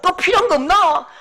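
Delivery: high, loud, generous treating; a happy mum offering treats; mother treating her son's friends, thrilled; giddy mother. Retold or imitated. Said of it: "마음이 들떠가지고 엄마도 그렇게 말한다고요".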